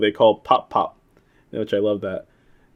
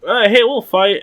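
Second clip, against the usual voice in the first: mock eager; 10 semitones higher, 5 dB louder than usual. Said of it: "they're like".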